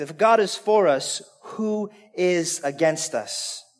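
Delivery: slow, hushed, soft voice, low pitch.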